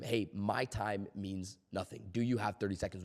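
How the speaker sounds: undercut yourself like a timid caller; mock self-deprecating caller. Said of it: "you just told them".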